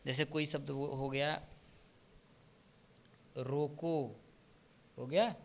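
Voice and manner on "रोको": रोको set apart, followed by a clear pause; pause after the word. Shown as a demonstration. Teacher showing students where the comma falls, pause after रोको. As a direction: say रोको alone, then stop. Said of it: "इसमें स्पष्टता आई".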